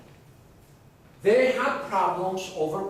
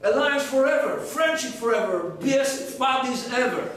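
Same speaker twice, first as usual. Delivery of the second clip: eager French agreement; 5 semitones higher than usual. Acted. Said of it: "the French go".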